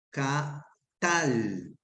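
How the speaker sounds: katal, drawn out with stress on the last A; stress on final syllable. Shown as a demonstration. Teacher showing students the accent, katal stressed on final A. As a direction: say katal slowly, landing on TAL. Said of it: "tilde en la última A".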